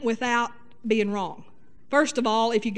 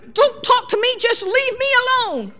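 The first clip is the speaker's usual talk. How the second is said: high, loud huffy outburst; mock angry wife; 10 semitones higher, 4 dB louder than usual. Wife slamming the door on her husband, mock angry. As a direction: play the slammed-door huff. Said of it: "slam the door and say".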